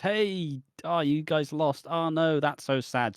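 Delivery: high, sing-song fake pity; a lightly hammed-up mocking "oh no"; mock sympathy. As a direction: gloat while pretending to feel sorry for them. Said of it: "she says".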